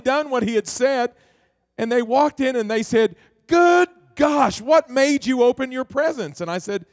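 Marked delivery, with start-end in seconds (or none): 3.5-6.4 startled, raised voice, pitched up; a parent caught off guard by the mess; higher, louder gasp of surprise; shocked parent. Retold or imitated. Parents shocked coming home.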